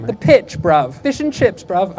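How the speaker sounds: a lightly put-on British accent, ending each phrase with bruv; lightly ape a London accent for the Brits; mock British accent. Comic teasing British tourists in a lightly mocked British accent. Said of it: "I don't know what you guys say".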